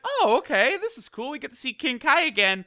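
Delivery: high, fast happy burst; mock excitement. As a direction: squeal it like a fan who just got a treat. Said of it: "immediately I was like".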